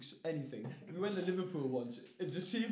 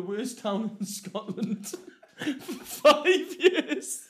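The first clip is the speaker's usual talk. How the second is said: loud, slow, high laughing delivery; incredulous, laughing and drawn out; 6 semitones higher, 10 dB louder, much slower than usual. Real, not acted. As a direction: barely get it out through laughter. Laughing at his own punchline.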